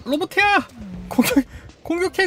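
high, excited commands; urgent egging-on. Real, not acted. Player ordering the robot to attack, urgent and high.

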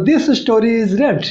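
said slowly and clearly; teacher slowly modelling the sentence for students to repeat; slow model sentence. Shown as a demonstration. Teacher models the English sentence slowly. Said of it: "रीड मतलब पढ़ा हुआ".

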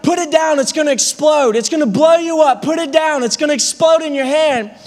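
urgent warning shout. Retold or imitated. Warning friend to drop the flaming can, urgent shout. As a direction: bark the warning to make him drop it.

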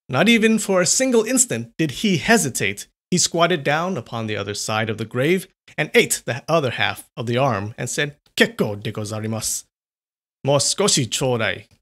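measured, dramatic storytelling voice; story narration. A narrator's reading. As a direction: read it like an old ghost tale. Reads a ghost story aloud.

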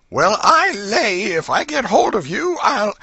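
put-on high, loud old-woman threat; loud enough for the furniture to hear; loud, not fierce. A narrator's reading. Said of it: "loud enough for the furniture to hear".

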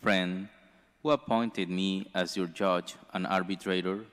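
measured, formal proclamation of scripture; solemn liturgical reading; gospel reading. Acted. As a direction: read the gospel to the congregation. Reads the gospel aloud.

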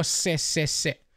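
"se" with a sharp, sibilant S; seseo marcado. Shown as a demonstration. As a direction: stress the hissing S in each "se". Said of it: "me pitan los oídos cuando hago". ("se, se, se" con eses silbantes)

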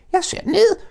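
high, loud shout upward; loud Piglet call. Acted. Piglet shouts up to the jagular, high and loud. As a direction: call out so they won't fall. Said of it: "råbte grislingen højt".

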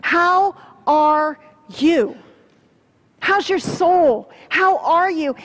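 slow, searching how are you; sincere question. Shown as a demonstration. Pastor asking the congregation, slow and sincere. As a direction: ask it like you want the answer. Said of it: "the church needs to start asking is".

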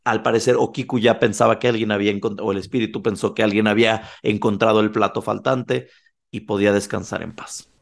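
ordinary talk

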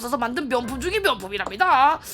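polite saleswoman voice; smooth sales pitch; customer service voice. Acted. Voices shopkeeper NPC.

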